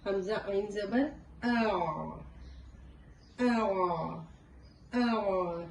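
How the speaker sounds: ہمزہ عین زبر then آ held from the throat; throaty ain demo. Shown as a demonstration. Teacher showing how to apply the technique. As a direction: push the tongue root back on each آ. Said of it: "کیسے؟".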